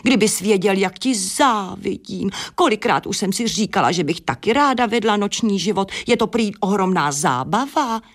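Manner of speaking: a touch of a wistful, excited hen; envious hen. Acted. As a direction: gush like a hen who dreams of nightlife. Hen Adéla gushes with envy.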